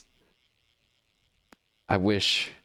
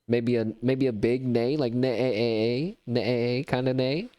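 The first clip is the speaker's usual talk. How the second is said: lackluster neighing horse impression; half-hearted neigh, neigh; horse nicker; 3 semitones higher, slower than usual. Shown as a demonstration. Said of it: "I will give a very lackluster horse impression".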